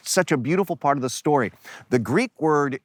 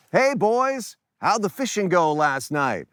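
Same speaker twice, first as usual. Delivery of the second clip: higher-pitched call without much volume; mock yell from afar; 5 semitones higher than usual. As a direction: hail them from the shore, lightly acted. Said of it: "yells out".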